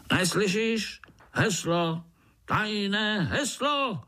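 high, slowing mock shout; shouting guard. Biggest ant demanding the password, high mock shout. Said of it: "křičel ten největší z nich".

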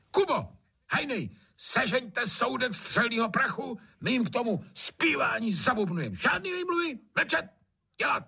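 very high, barking orders; raging Trautenberg. Acted. Trautenberg in a temper ordering gunpowder. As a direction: bark commands, no excuses allowed.

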